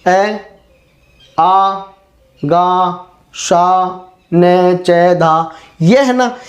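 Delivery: ए, आ, गा, शा spoken one by one; teacher spelling out ए आ गा शा; syllables spelled out. Shown as a demonstration. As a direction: sound out each syllable slowly. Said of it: "देखो".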